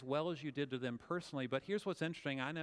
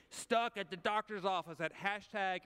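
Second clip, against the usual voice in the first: mock tweet complaint; 3 semitones higher, slower than usual. Shown as a demonstration. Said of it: "and you tweet".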